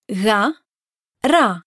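Ga throaty at the back, ra rolled at the front; throaty versus rolled. Shown as a demonstration. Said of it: "say gamma and ro".

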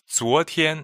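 "昨天" with rising zuo and high level tian; "昨天" said clearly; modeling yesterday. Shown as a demonstration. Host models yesterday for learners, clearly. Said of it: "the word for yesterday".

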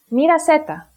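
"μοίρασέ τα" stressed on μοί and σέ; "τα" unstressed after stressed σέ; double stress. Shown as a demonstration. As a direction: join "μοίρασέ τα" with two clear stresses. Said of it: "The second case of enklisis".

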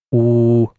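"U." as a rounded oo, said out loud; vowel demo. Shown as a demonstration. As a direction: say "U." with the lips rounded. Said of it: "our last vowel".

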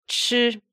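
Chi high and level; first tone. Shown as a demonstration. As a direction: hold Chi up, steady. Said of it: "this is a first tone".

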